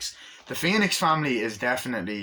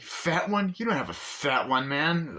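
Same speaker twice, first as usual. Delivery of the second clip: teasing disbelief; 5 semitones higher than usual. Acted. Friend teasing afterwards.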